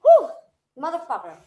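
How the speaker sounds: cursing at spicy burn; blowing out the heat of the food; mouth full of hot food. Real, not acted. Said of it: "my mouth is on fire".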